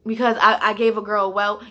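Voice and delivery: loud, indignant protest to the boss; heated back-talk about the cold; retold angry protest. Arguing back at her boss.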